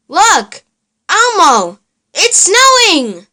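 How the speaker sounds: mommy showing Elmo the snow, thrilled; excited. Acted. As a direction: point out the snow with delight.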